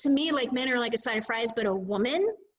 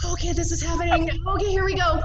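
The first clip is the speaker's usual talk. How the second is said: high, louder, hyped self-talk; high-pitched mock pep talk; acted-out psyching up; 8 semitones higher, 6 dB louder than usual. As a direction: retell bracing yourself for the big moment. Retelling nervous start of intimacy.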